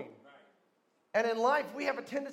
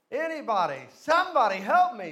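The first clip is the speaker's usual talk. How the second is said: screaming for help; 2 semitones higher, 10 dB louder than usual. Retold or imitated. Man dangling from a cliff yells for any rescuer, screaming. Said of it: "he's screaming".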